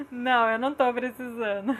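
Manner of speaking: laughing reply; amused. Real, not acted. Mother answering the old childhood put-down, amused and laughing. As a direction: say it through a laugh.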